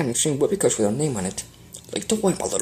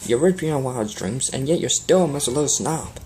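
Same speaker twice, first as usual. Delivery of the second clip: angry scolding. Acted. Applejack angrily scolds Rarity.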